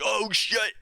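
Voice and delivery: mock Irish fighter cursing in surprise, half-hearted; sloppy Irish accent impression; attempted Irish accent. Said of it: "I, I can't do accents".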